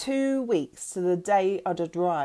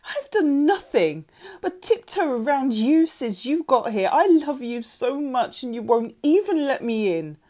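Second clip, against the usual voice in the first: raised, high-pitched hurt tirade; furious; 6 semitones higher, 4 dB louder than usual. A narrator's reading. Mother who tiptoed round daughter, furious. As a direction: pour out the fury at a pitch. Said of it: "eyeballs bulging with fury".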